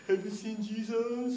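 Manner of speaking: high, eerie imitated leper; put-on high leper voice; spooky leper. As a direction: call out like a creepy leper. Lepers frightening the kids.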